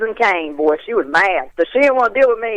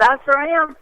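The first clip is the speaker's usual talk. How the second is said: coy retold reply; 7 semitones higher than usual. Acting out her reply to admirer.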